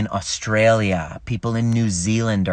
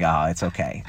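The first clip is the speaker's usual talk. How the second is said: lower, gentle retold reassurance; retold soothing; 6 semitones lower, 3 dB quieter than usual. Partner comforting his crying pregnant wife, mildly soothing. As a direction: imitate comforting someone in a lowered voice. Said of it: "okay, so she's crying".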